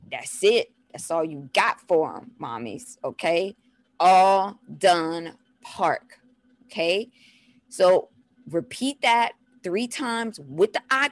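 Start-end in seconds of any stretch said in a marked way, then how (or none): 4.0-6.2 very slow, separated words; drawn-out simple instruction; slow teaching phrase. Shown as a demonstration. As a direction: spell it out word by word for a toddler. Repeats the demonstrated phrase.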